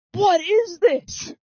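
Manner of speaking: high-pitched retold panic; acting out exasperated, rising alarm; freaking out. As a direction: plead in a high voice, mock freak-out. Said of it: "I'm freaking out".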